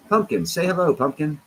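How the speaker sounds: high-pitched talk to a cat; coaxing a pet. Real, not acted. Streamer asking the cat to say hello, high coaxing. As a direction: coax the kitty to greet everyone.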